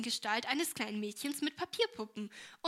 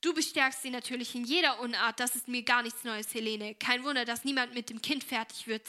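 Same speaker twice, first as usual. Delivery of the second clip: irritated; 6 dB louder than usual. Acted. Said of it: "sagte Esther gereizt".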